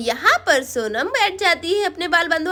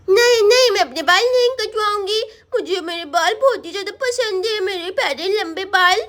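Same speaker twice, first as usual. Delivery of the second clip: put-on little girl Sonam, refusing; 2 semitones higher than usual. Girl refusing mama's haircut, childish protest. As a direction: protest like a stubborn small child.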